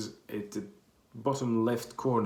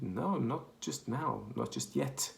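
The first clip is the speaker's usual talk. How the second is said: slow deadpan; 4 semitones higher, slower than usual. Retold or imitated. Answering the helpline joke.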